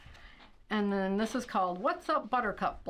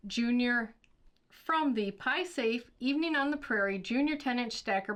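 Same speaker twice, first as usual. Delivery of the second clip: bright catalogue voice, a little higher; ad read; 3 semitones higher than usual. Acted. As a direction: sell it like a shopping channel host. Reads product ad copy.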